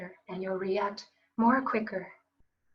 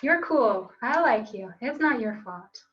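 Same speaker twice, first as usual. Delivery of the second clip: louder, upbeat self-reassurance; loud cheerful affirmation; 3 dB louder than usual. Shown as a demonstration. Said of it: "Everybody say".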